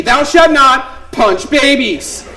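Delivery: slow, solemn biblical decree; mock commandment. Pastor to congregation, mock solemn decree. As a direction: intone it like scripture.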